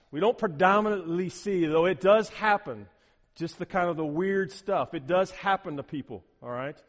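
ordinary talk, nothing marked

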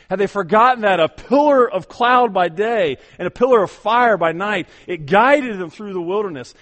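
full-force preaching. Acted. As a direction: lift the congregation with soaring proclamation. Rising rhetorical questions in sermon.

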